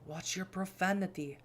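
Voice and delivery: measured, restrained rebuke; lightly voiced stern superior; stern mentor. Kadir warning about professional boundaries, coolly stern.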